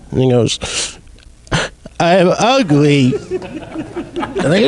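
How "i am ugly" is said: slow whiny crybaby voice; crying child. Retold or imitated. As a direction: blubber it like a sulking kid. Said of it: "crybaby talk".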